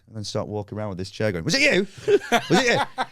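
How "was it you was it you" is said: high-pitched comic demand; squeaky, overwrought interrogation; mock manic accusation. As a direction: round on each suspect in turn. Acts hunting the heckler with chair.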